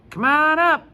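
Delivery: loud, high call to the front. Acted. Mister Todd calling Judy up to the front, loud. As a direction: call her up across the room. Teacher calls Judy forward.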